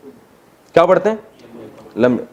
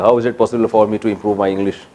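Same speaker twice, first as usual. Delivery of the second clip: showing off English; 6 semitones lower, 3 dB quieter, slower than usual. Retold or imitated. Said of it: "ایسے میں نے دو چار ٹھش پش ماری".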